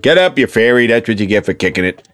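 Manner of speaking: lightly voiced dad calling across a field; mild mock sideline telling-off; father impression. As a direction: imitate an unsympathetic Irish dad. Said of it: "my dad's on the other side of the field".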